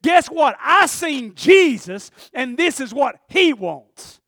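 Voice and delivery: loud, slow, amazed telling; slow, loud wonder at seeing Jesus; excited testimony. Retold or imitated. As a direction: announce it like news too big to hold. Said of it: "the first thing he says is".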